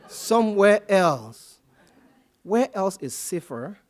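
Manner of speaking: slow, loud, laughing disbelief. Real, not acted. Speaker laughs at being told to go somewhere else, slowly. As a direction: laugh the words out at the absurd idea.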